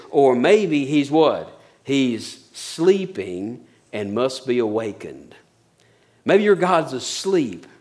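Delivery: drawn-out, very slow sarcastic taunt; slow mockery. Elijah mocking Baal's prophets, slow sarcastic drawl. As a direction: stretch every word out to ridicule them. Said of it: "He's mocking them".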